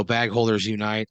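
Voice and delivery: understated rallying cry; a restrained retold yell; mild mock yell. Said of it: "You yell".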